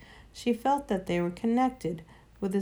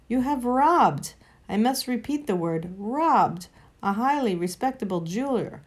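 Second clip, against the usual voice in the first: pompous offended gentleman ranting; rising outrage of a stuffy old uncle; indignant Uncle Andrew. Acted. Uncle Andrew voiced, indignant rant.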